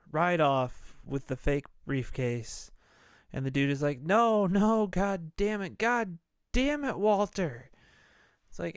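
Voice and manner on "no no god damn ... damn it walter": high, exasperated wail; retold despairing cry at a disaster; mock anguished outburst. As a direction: act out helpless fury, pitched way up. Acted despair as briefcase is lost.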